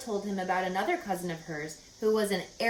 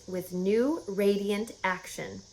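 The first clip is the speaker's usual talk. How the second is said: reading slowly; 4 dB quieter, slower than usual. Acted. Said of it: "Charlotte read the words".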